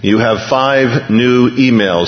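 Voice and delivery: computer voice. Retold or imitated. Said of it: "said the computerized voice".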